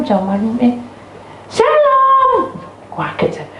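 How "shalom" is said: high, ringing call; imitated loud greeting. Visitor arrives at night, startling loud greeting. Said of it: "kok suaranya kok kayak orang itu".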